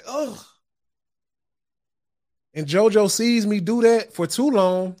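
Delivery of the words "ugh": short groan of pain, held hip; a hurting ugh; mock pained grunt. Preacher acting out hip pain for a friend, soft groan. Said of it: "and I say".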